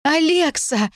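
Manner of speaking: high tearful cry of her friend's name; calling out high through tears. A narrator's reading. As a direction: burst in crying out the name.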